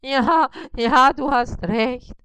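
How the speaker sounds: high, slow howl of agreement. Acted. Spider howls agreement to Bissi, high and slow. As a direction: yowl it, dragging the words. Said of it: "jaulte Karl-Heinz".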